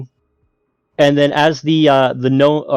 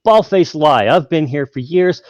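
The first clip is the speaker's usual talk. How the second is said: a hint of a nervous liar; lying gnome; 2 semitones higher than usual. Gnome bluffing the half dragon, lightly voiced nervous denial. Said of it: "He goes".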